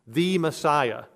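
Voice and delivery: the said as "thee", leaned on; stress on THE. Shown as a demonstration. Preacher stresses that he is the only anointed one. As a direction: hit the word the hard as in the one and only. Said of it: "but as the anointed one".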